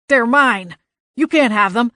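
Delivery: furious, possessive shouting; loud angry yell. Acted. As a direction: yell like a tantrum. Leprechaun yells for his notes.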